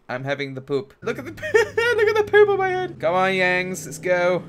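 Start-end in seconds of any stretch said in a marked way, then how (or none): 1.0-3.0 high, squealing laughter through the words; laughing helplessly. Real, not acted. Player amused by poop on his head, high helpless laughing. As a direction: break up laughing mid-sentence.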